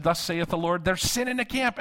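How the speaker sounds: high, insistent mock prophetess; thicker King James prophecy. Irked intercessor repeats her word to the pastor, mock prophetic proclamation. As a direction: build to a high-pitched proclamation of doom. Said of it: "the King James got thicker".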